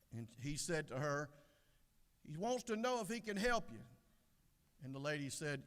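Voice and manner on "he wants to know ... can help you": raised pitch for a deaf listener; relaying husband. Acted. Husband repeats it to his hard-of-hearing wife, pitched up.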